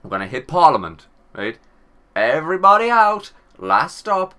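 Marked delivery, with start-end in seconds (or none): 2.2-4.3 loud, higher shouted announcement; bus driver call. Pretend. Driver ordering the crew off the bus, loud call. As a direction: yell it like a driver emptying the bus.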